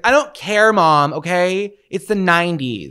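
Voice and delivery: put-on high, loud teenage defiance; sassy teen. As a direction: snap back at mom like a nineties teen. Voicing teen to mom.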